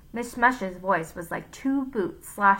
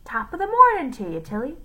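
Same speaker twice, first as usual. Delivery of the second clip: higher, quick cheerful greeting; old Scotsman; 7 semitones higher, 4 dB louder, faster than usual. A narrator's reading. Old man greets his wife after twenty years, cheerful. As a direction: greet her brightly after silent years. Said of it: "turned to his wife and said".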